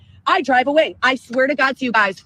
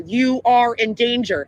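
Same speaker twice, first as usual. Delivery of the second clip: robot voice; slower than usual. Retold or imitated. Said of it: "it's like a robot voice".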